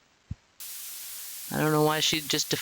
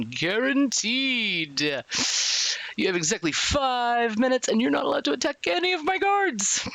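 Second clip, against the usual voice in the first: theatrical announcer, swooping in pitch; warden's announcement. Acted. Warden explains the freedom contest to inmates, showy announcement. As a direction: proclaim the contest rules with relish.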